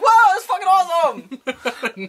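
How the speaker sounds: high, fast burst of awe; hammed-up thrilled fan reaction; re-enacted excitement. Retells own excited reaction to episode.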